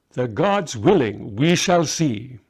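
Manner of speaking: put-on slow, dry old magus, lightly ironic; a hint of irony. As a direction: let a little irony creep in, unhurried. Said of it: "A small hint of irony crept into Balthazar's voice".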